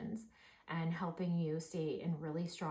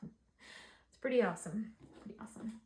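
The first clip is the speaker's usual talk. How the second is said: laughing; 4 semitones higher than usual. Real, not acted. Delighted by the reading.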